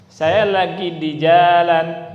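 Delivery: Saya lagi di jalan spoken slowly and loudly; slow, loud model sentence; slow demo sentence. Shown as a demonstration. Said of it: "begini nggak ada panjang pendeknya".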